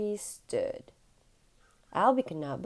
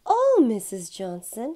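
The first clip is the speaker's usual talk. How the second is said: louder sudden cry of her name; blurted out; 3 semitones higher, 7 dB louder than usual. Acted. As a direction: burst out with it, unable to hold back. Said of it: "he blurted out".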